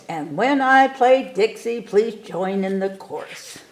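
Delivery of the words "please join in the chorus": plain reading voice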